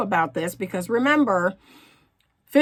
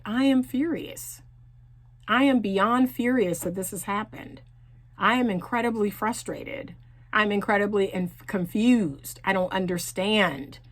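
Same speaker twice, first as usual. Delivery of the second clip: firm, calm, a bit softer; calm and direct; 3 dB quieter than usual. Shown as a demonstration. Coach demonstrating a calm, assertive way to voice anger. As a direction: state your anger steadily, no drama. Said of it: "say in a calm tone, in a very direct way".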